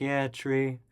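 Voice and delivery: offhand, deadpan acknowledgement; retold unconcern. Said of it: "They didn't even care".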